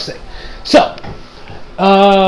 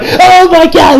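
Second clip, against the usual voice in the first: mock shock; 10 semitones higher, 6 dB louder, slower than usual. Frog villain sees King.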